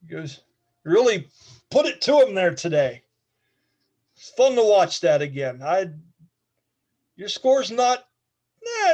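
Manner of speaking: Ned speaking. Acted. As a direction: give an old fighter's proud approval. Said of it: "And he says, uh, to you".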